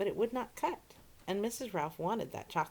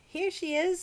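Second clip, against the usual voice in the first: excited greeting; 13 semitones higher, 7 dB louder than usual. A narrator's reading. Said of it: "said the ladies".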